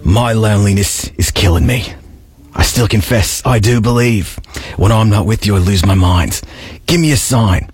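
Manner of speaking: put-on spoken song lyric in an Australian accent. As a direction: recite it like an Australian, without singing. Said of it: "say the line in that accent".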